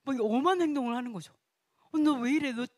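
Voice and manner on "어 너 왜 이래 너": mock exasperated rebuke, louder at first; exasperated scolding. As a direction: scold a misbehaving child, half in jest. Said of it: "막 이러". (살짝 장난스럽게 꾸짖듯이)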